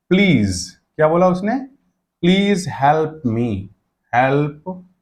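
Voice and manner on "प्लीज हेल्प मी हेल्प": slow request. Shown as a demonstration. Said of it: "हेल्प मी ऐसे बोल दिया".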